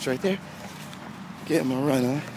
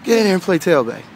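coach calling out; 4 semitones higher, 4 dB louder than usual. Retold or imitated. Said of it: "they're like".

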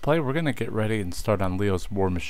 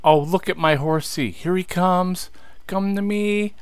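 high, sing-song pet talk, rising ever higher; cooing to the horse; 10 semitones higher than usual. Real, not acted. Cooing to his in-game horse.

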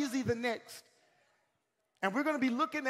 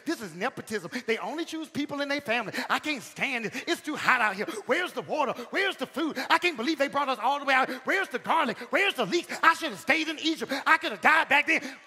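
mock complaining crowd, fast and louder at the end; hammed-up grumbling, getting louder; grumbling Israelites; 4 dB louder than usual. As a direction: whine like a fed-up grumbler in the desert. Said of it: "Who told Moses, Aaron, and Miriam".

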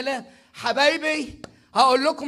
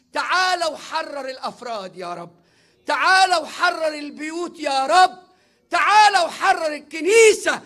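rising, louder plea to the Lord; fervent prayer cry; 3 semitones higher, 5 dB louder than usual. Real, not acted. Preacher crying out to the Lord in prayer, building. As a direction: call on God with growing force.

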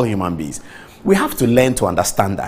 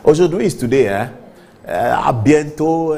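mock French; 4 semitones higher than usual. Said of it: "He said something like that".

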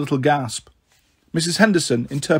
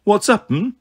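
higher, gently enquiring teacher; concerned, changed voice; 6 semitones higher than usual. A narrator's reading. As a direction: lift the pitch in mild concern. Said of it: "in a different sort of voice altogether".

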